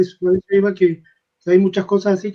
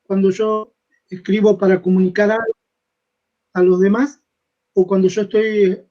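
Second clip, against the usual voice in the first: breaking up over the call; broken, cutting-out audio; choppy connection. Real, not acted. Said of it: "te oigo entrecortado".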